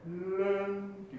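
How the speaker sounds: レン said slowly and light on the weak vowel. Shown as a demonstration. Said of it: "弱母音なので". (弱母音の軽いレン)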